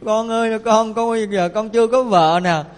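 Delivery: mock wailing over a lost child; imitated grieving parents' keening; tearful lament. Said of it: "ông bà đau buồn khóc lóc".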